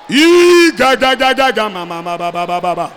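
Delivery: shouted, then fading tongues babble; speaking in tongues. Real, not acted. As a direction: pour out tongues, loud then dropping off. Speaking in tongues during prayer.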